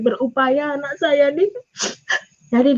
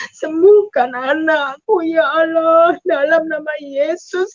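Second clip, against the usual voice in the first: slow, tearful plea for healing; crying plea; 3 semitones higher than usual. Retold or imitated. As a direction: plead for the child through sobs. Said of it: "kata saya". (memohon kesembuhan anak sambil menangis)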